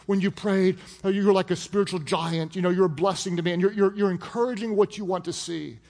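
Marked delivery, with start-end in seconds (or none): 0.0-3.5 gushing praise. Retold or imitated. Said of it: "go crazy over that".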